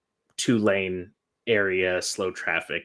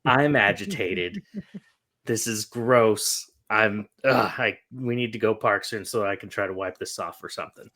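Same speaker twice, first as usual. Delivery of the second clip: loud on my new car, a touch of mock outrage; agitated protest; 4 dB louder than usual. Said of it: "I was like".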